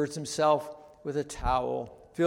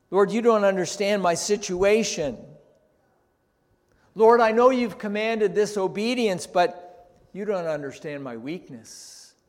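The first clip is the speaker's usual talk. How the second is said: pleading that rises higher and louder, then settles back; building plea; 5 semitones higher, 6 dB louder than usual. Retold or imitated. Preacher voicing believers' excuses to the Lord, pleading more and more. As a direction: build the excuses to a loud peak.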